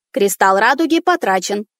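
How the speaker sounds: flat electronic robot voice. Acted. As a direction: announce like a machine. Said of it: "ответил голос робота".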